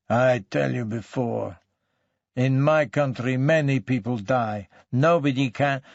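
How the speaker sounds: put-on sullen denial in accented, broken English; foreign-accented suspect, grudging and defensive; surly foreign suspect. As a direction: deny it all like a surly immigrant suspect. Suspect excuses himself.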